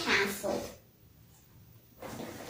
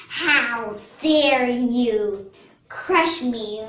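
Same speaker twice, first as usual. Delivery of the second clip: slow, louder mock threat; indignant snake; 5 dB louder, slower than usual. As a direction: lightly act an affronted snake, drawn out. Mean snake threatens the monkey.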